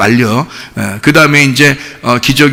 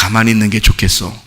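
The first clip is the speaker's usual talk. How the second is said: gentle advice; 4 semitones lower, faster than usual. Retold or imitated. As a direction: coax them kindly to stay still. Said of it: "하나님이 그래".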